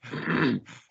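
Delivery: loud demonstration huff of breath. Shown as a demonstration. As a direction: huff as if winded from running. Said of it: "do what you normally would do when you're out of breath".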